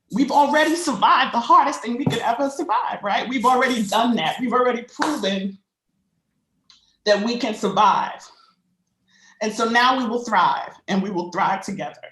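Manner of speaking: trembling, moved voice; shaky voice. Real, not acted. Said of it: "I'm sorry for my shaky voice".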